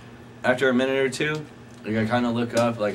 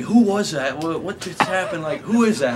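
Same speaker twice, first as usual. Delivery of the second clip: high, raised mock bewilderment; imitating a knocked-over officer, pitched up; flustered, stunned; 7 semitones higher, 5 dB louder than usual. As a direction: fire off questions like a dazed man. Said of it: "he couldn't even talk".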